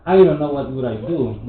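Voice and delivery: exaggerated intonation. Shown as a demonstration. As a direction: project the line as the teacher showed. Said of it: "I want you to exaggerate".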